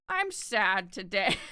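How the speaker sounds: drawn-out, playful "sad" whine; slowly milk the sadness, jokingly; mock sad. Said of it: "just 'cause I'm like".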